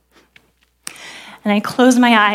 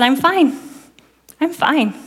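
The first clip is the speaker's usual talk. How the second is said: mock cheerful brush-off, pitched up; a put-on brave little "I'm fine"; forced smile; 5 semitones higher, slower than usual. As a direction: fake it till they believe it. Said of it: "put on a smile on my face".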